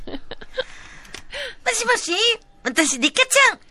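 squeaky-high doll impression; Rika-chan. Doll introduces herself on the phone, very high doll voice. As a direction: put on a tiny high doll voice. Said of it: "リカちゃんのモノマネをしていきたい".

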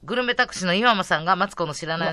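measured radio letter reading; storytelling lift on the surprise; listener message read. Real, not acted. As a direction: read the fan mail with a little drama.

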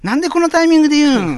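loud, fast exasperated retort; indignant boy outburst. Acted. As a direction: shoot back in disbelief. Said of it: "始まりの街というネタ". (呆れた大声のツッコミ)

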